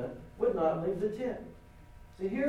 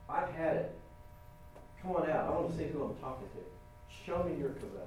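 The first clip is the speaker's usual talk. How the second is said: frustrated Moses; 7 dB quieter than usual. Retold or imitated. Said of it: "the frustration of Moses, I think he's basically saying".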